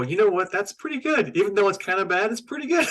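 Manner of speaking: half-amused grudging praise; mock grudging approval. Mock-convinced viewer reaction.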